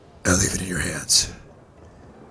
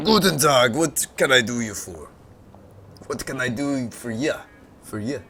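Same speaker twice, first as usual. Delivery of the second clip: put-on a weak, lightly German-tinged old man; a half-hearted old sage with a German touch; Deckard Cain voice; 3 semitones higher than usual. Junkyard tinkerer greets the visitor, weak German-accented old man. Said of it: "That's terrible".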